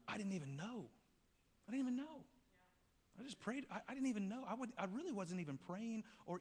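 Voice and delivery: high, loud emphatic preaching; impassioned preacher's peak; preaching climax. Real, not acted. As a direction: build it up with conviction.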